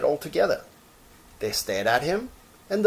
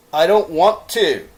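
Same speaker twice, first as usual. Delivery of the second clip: higher, louder refusal; reluctant little rabbit; 7 semitones higher, 10 dB louder than usual. Acted. Toy rabbit refusing to hop, higher. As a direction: refuse sulkily.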